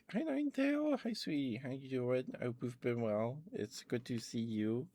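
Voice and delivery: high, affectionate sing-out hello; sweet greeting. Real, not acted. Sweetly greeting a viewer who arrives.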